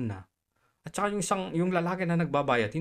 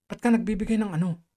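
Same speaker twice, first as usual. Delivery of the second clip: raised, higher mock manager's voice; half-shouted, accusing retelling; imitated scolding shout; 4 semitones higher, 4 dB louder than usual. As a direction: retell the manager snapping at you. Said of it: "Sinigawan ba naman ako?".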